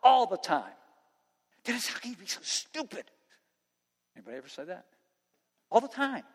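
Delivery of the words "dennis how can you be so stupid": softer, scolding himself under his breath; a quiet self-reproach, as if talking to himself; self-scolding inner voice. Retold or imitated. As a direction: berate yourself quietly in a private inner voice. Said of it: "I am talking to myself".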